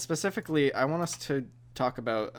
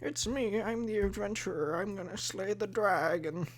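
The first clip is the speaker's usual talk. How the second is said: higher-pitched naive hero, pretend; D&D adventurer; 6 semitones higher, 4 dB quieter than usual. Player acting an adventurer out for a walk, high pretend hero voice. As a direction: play an eager little adventurer in a high voice. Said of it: "imagine you're a D and D adventurer".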